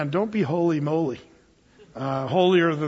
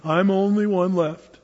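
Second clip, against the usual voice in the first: mock pout, drawn out slowly; pouting Elijah; slower than usual. Elijah complaining in his little cave, pouting. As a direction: sulk it out in a self-pitying complaint. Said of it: "he's kind of in this little pouting phase".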